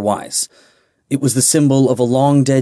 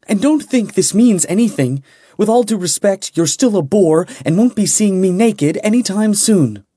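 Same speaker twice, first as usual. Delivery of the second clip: defiant glare; 9 semitones higher than usual. Acted. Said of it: "she glared up at him".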